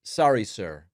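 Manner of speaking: imitating Trump. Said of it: "and Trump goes".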